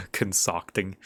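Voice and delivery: concocting said through a chuckle; laughing. Real, not acted. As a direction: laugh while repeating concocting. Laughing at own stumble.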